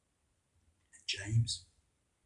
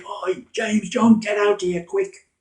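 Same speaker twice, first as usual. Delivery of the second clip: loud, higher call across the water; shouting; 10 semitones higher, 11 dB louder, slower than usual. Acted. Andrew calling James and John to help, shouting. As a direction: yell for help to the other boat. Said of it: "he was shouting".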